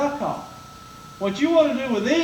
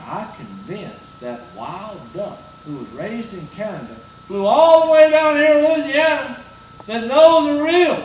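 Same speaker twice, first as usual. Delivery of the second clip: excited; 5 dB louder than usual. Retold or imitated. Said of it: "I start getting excited".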